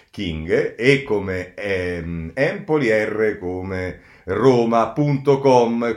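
slow letter-by-letter spelling. Shown as a demonstration. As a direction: spell each letter with a city. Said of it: "lo dico parola per parola".

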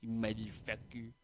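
homeless white guy. Shown as a demonstration. Comic demonstrating a homeless guy, soft slurred voice. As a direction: slur it softly as a caricatured vagrant. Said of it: "homeless white guy who's, who's like".

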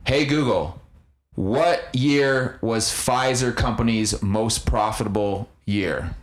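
slow, careful command to phone; talking to voice assistant. Real, not acted. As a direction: spell it out for the phone.

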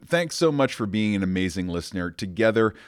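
polished, upbeat scripted call to action; podcast outro read. Acted. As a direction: read it like a host asking listeners to subscribe.

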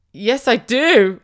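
high, loud, slow and drawn out; hammed-up, desperate acceptance; mock needy wail. Mum accepting a stranger's offer of a hug, mock needy wail.

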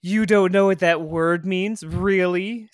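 lightly imitated snark; mock condescending disbelief; snarky, condescending. Retelling the ex belittling Laura's vocabulary, snarky. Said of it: "said it in a very snarky, condescending, cunty way".

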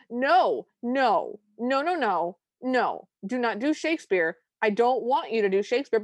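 emphatic mock outcry, each no punched; all-caps protest. Co-hosts' chat begging him not to do Shakespeare, all-caps protest. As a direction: protest like a chat typing in capitals. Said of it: "devolved into all caps".

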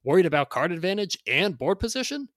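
loud, high hard-sell pitch; carnival barker. Acted. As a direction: hype it like a fairground barker. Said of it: "read this in sort of a carnival barker".

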